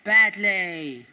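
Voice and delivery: Bond impression. Bond delivering one-liner.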